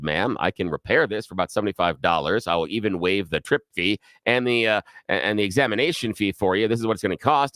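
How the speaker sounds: lightly voiced tired repairman; repairman's voice.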